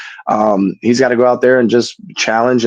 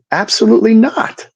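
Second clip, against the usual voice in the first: a higher, mock "absolutely not" from a teammate; higher mocking quote of a scared teammate; retold flat refusal; 12 semitones higher than usual. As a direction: imitate the teammate turning it down, pitched higher. Teammate refusing the closer role.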